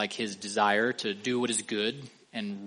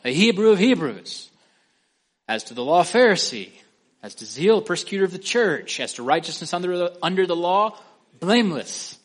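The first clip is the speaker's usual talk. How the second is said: higher, louder proud boasting; boastful Paul; 6 semitones higher, 6 dB louder than usual. Retold or imitated. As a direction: puff up and brag each title. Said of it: "and he said to himself".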